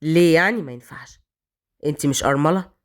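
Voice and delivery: low, teasing, menacing questions; mocking hero. A narrator's reading. Raad mocking Malak's refusal, low and menacing. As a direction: toy with her objection.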